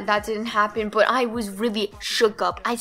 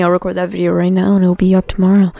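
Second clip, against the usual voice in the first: excited; 3 semitones lower, 11 dB louder, faster than usual. Real, not acted. Excited promise to viewers.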